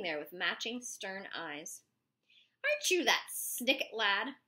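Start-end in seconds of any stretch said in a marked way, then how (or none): 2.6-4.4 loud, slow barked demand; barked question. A narrator's reading. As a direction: bark it at the boy like a suspicious cop. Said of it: "barked at me".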